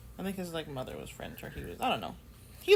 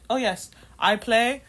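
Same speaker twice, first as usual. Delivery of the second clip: put-on American accent; 5 dB louder than usual. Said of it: "in the most American accent ever".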